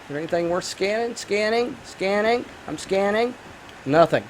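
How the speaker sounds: soft, each scanning lifting at the end; absent-minded murmur. Real, not acted. Gamer talking to himself while scanning a room, quiet murmur. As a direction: murmur to yourself as you search. Muttering to self while searching game.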